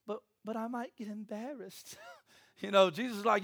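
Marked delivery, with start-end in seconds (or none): 0.1-2.0 whiny excuse. Retold or imitated. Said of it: "and we're like".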